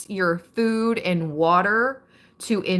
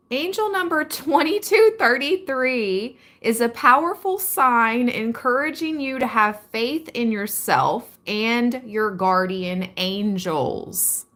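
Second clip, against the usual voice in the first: higher voice with a mock Southern twang; imitating the Southern twang; 5 semitones higher than usual. Vlogger mimicking her AI voice, mock Southern twang. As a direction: copy the AI voice's Southern lilt, lightly. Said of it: "She had a little Southern twang in there".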